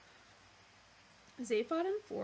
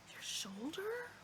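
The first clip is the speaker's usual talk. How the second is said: breathless horrified whisper; 9 semitones higher, 5 dB quieter, slower than usual. Acted. Arthur horrified at the animal's offer, whispering. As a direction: whisper it in disbelief, appalled. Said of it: "whispered Arthur, in a horrified whisper".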